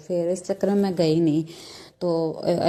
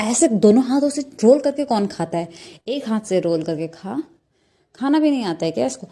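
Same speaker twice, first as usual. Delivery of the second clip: raised, scolding big-sister voice, louder and higher; 3 semitones higher, 3 dB louder than usual. Retold or imitated. Big sister scolds Roohi for rolling noodles with both hands, scolding. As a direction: tell her off sharply for eating with both hands.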